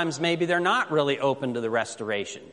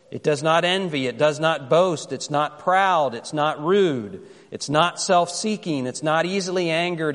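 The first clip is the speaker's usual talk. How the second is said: scripture reading. Acted. Reads scripture slowly.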